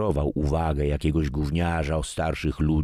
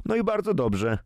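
put-on much higher, a teenager's smug retort; curt retort. A narrator's reading. Grandson cuts in on father's business complaint, smug retort. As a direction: toss it off as a snide comeback. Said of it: "skwitował Paweł".

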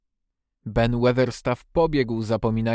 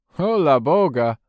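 loud, drawn-out, higher exclamation; exclaiming call; 4 semitones higher, 7 dB louder than usual. A narrator's reading. Ben Weatherstaff reacting to Colin digging, loud exclamation. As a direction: call it out slowly in astonishment. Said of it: "zawołał".

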